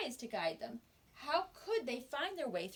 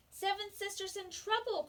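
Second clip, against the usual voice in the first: cried out; 9 semitones higher than usual. Acted. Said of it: "cried first sister".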